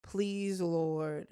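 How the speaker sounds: low and hushed, fading away; small pleading prayer under the breath, acted out; quiet silent-prayer plea. Coworker praying as he walks in, hushed plea. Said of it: "first thing that pops into my head".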